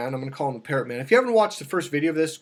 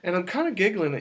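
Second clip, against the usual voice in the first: ordinary talk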